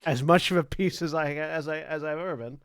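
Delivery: lightly put-on German veteran's voice; German accent. Koenig answering the party in a mild German accent. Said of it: "In his accent".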